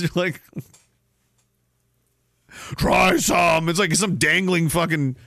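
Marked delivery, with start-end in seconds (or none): 2.8-3.7 loud pushy offer; mock offer. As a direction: shove the food at the kid. Parent offering lobster, loud.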